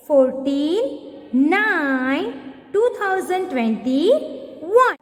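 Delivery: date read very slowly; teacher dictating the date slowly; slow dictation. Shown as a demonstration. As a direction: dictate slowly for children to write. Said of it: "Write down today's date".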